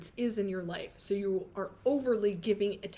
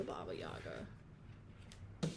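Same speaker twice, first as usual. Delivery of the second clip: slow whispered aside; 12 dB quieter, much slower than usual. Acted. Reader whispering respect to Baba Yaga. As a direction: hush it out respectfully.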